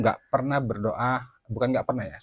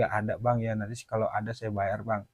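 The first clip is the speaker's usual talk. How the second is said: pengutang agak merendah, suara turun; jawaban pasrah; 3 semitones lower, 4 dB quieter than usual. Retold or imitated. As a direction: menenangkan penagih dengan agak pelan. Pengutang menjawab penagih dengan pasrah. (tiruan pengutang yang mengalah)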